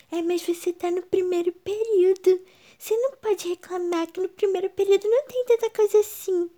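high, loud whiny mocking voice; mock a nagging know-it-all; annoying person voice. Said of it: "gente chata no mundo que fala".

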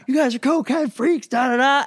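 high-pitched mock rant from an upset mom; high, hammed-up outburst; freaking-out mom. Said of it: "she starts freaking out".

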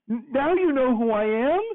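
high squeaky disbelief through laughter; incredulous laughing. Retold or imitated. The speaker mocking her text about his shoes, laughing disbelief.

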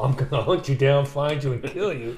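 a hint of a low, menacing movie hero; Liam Neeson in Taken. Co-host quoting the Taken threat to his friend, lightly imitated menace. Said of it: "Liam Neeson in Taken".

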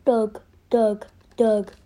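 short separate bursts, mimicking him; imitating him. Shown as a demonstration. Player showing he can sound like him, punchy imitation. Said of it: "literally sound like him like this".

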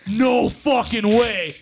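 slow, drawn-out disbelieving shout; hammed-up outraged no way; mock shout. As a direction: yell each word out slowly in disbelief. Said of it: "I'm like".

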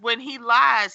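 ordinary delivery

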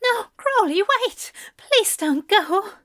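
high, loud frantic begging; desperate plea. Acted. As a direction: beg him not to hang up. Aziraphale begs on the phone.

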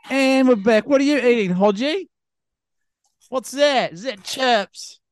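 host back on air. Real, not acted. Podcast host resumes recording.

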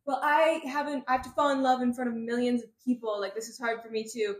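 mildly whiny protest. Retold or imitated. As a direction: retell his protest with a touch of exasperation. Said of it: "Except he says it a lot nicer".

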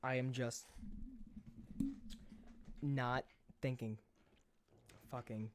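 talking while chewing gum; words round a wad of gum. Real, not acted. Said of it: "What are you eating?".

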